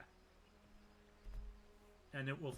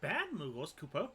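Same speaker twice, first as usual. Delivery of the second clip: high, loud, frantic little Moogle voice; pleading Moogle; 12 semitones higher, 4 dB louder than usual. Acted. Small Moogle pleading with adventurers not to kill its kin, high and frantic. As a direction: beg them to spare the Moogles, voice pitched way up. Moogle begging heroes to spare them.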